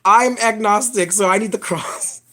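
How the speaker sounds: lightly voiced scared guy begging for the crucifix; mocking the nonbeliever. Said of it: "That's what the guy would be saying".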